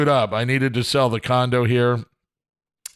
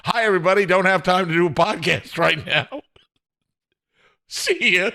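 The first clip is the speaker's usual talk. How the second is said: breezy mock sign-off; 4 semitones higher than usual. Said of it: "me going".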